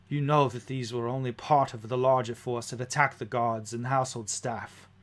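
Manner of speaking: lightly voiced noble lady, measured; a hint of a formal lady giving a report; composed noblewoman. Game master plays Lady E.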